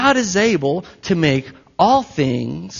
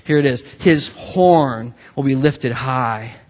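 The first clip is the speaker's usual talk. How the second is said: scripture reading. Acted. Reading Psalm slowly.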